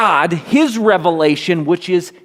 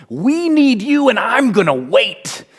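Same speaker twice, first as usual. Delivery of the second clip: crying out; 9 semitones higher than usual. Acted. Habakkuk crying out to God, a desperate high plea. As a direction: cry out to God with everything. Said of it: "Habakkuk cries out".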